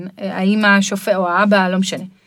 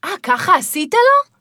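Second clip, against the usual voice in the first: higher, slow accusing question; accusing parent; 8 semitones higher, slower than usual. Retold or imitated. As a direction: turn the blame on the kid.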